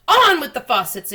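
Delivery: high, loud laughing bellow; shouted. Acted. The cloud man calling down, high loud laughing shout. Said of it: "it shouted".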